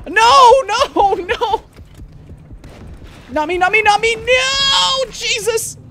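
very high, loud begging screams; panicked screams. Real, not acted. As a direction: scream no as the shark gets you. Shark eats him.

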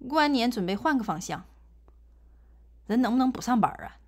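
Northeastern Mandarin accent, 从 and 之 without retroflex. Shown as a demonstration. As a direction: read it in Northeastern dialect. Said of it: "你用东北话怎么读啊".

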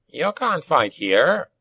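slow, high goblin shout; acted shout. A narrator's reading. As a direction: call it out over a brawl, without full volume. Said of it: "he shouted".

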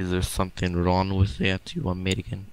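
mock Russian accent, hammed up; gruff fake Russian villain voice. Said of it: "you're using your Russian accent".

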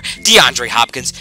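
drawn-out slow DeAndre Hopkins; savoring the name; slow emphatic name. Real, not acted. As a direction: spell the answer out slowly. Name answered twice.

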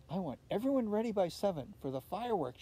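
brisk, quick mother voice; mother's instruction. Acted. Mother tells the family to be ready for fireworks, brisk. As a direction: hurry the family along, lightly voiced. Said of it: "she said".

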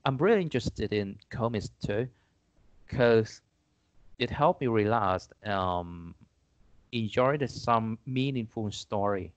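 slow, deliberate English read-out; measured classroom English; model exam answer. Acted. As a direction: answer slowly, as a demonstration for learners.

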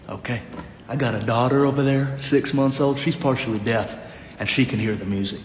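low, firm warning voice; a hint of an angry neighbour; stern neighbour. Stern neighbour warning about music.

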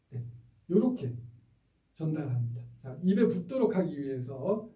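ordinary talk, nothing marked

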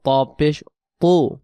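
slow তু, thick and heavy. Shown as a demonstration. Teacher spelling the heavy letter slowly, thick. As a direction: draw out a heavy তু. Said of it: "মোটা আওয়াজে পড়তে হবে".

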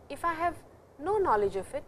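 ordinary delivery

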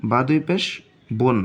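বোন ending in a clear n; tanwin sound. Shown as a demonstration. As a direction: close বোন with a nasal n. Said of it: "দুই পেশের উচ্চারণ হবে".

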